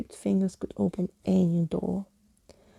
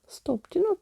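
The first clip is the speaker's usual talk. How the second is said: much higher, desperate plea; panicked high cry; 11 semitones higher than usual. A narrator's reading. Skeleton cries out as Emily reaches for his scarf, panicked. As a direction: cry out to stop her in panic. Skeleton tries to stop her.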